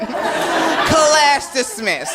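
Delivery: very slow, stretched-out mock teacher sign-off; comic teacher closing the lecture; professor dismissing class. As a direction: drag it out like a smug professor. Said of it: "like I had some type of bar graph behind me".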